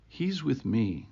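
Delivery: lightly voiced tender Jesus; Jesus's voice. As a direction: say it quietly, as one protecting a friend. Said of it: "This will be Jesus's voice".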